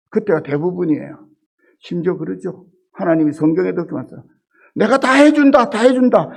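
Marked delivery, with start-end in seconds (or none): 4.8-6.3 higher, louder booming promise; emphatic divine promise; voice of God. Retold or imitated. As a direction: declare it like God himself. Voicing God's promise.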